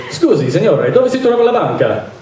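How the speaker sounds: a rehearsed Italian phrase, lilting on the question; lightly put-on Italian accent, trying to sound perfect; practiced Italian. Tourist asking a stranger the way to the bank, practiced Italian. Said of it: "I wanted to sound perfect".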